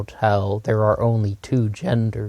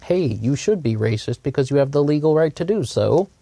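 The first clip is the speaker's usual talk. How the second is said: higher-pitched mock quote with a rising lilt; Lauren Southern; 5 semitones higher than usual. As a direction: lightly imitate a commentator egging people on. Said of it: "someone like Lauren Southern saying".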